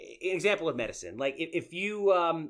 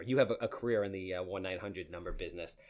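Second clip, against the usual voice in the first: deep soul-singer voice; 7 semitones lower, 4 dB quieter than usual. Retold or imitated. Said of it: "Barry White-esque kind of voices".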